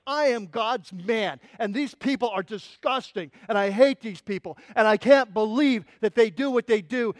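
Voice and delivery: acted zealot, building from measured to forceful; self-righteous anger. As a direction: justify yourself with mounting indignation. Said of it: "he's self-righteous".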